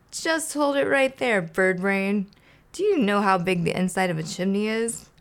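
sneering Oscar; scoffing grouch. Acted. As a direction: cut him off with scorn. Oscar scoffs at Big Bird.

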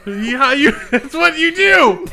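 put-on Hawaiian accent. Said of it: "Nick with a Hawaiian accent".

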